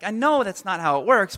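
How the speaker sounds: dad's reply in a near-normal voice; lightly voiced dad explaining; parent replying. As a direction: answer as the parent, barely acted. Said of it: "I'm a parent".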